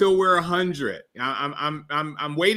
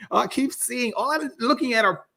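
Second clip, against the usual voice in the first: high giggly embarrassed talk; flustered laughing confession; 8 semitones higher than usual. Real, not acted. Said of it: "I'm so crazy".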